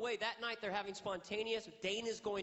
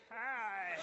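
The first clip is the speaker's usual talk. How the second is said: nervous hi; 4 semitones higher than usual. Retold or imitated. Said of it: "distorted with my nerves".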